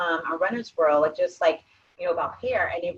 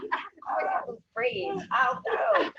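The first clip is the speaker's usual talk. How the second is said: high mock exclaim. Mock exaggerated quote, laughing.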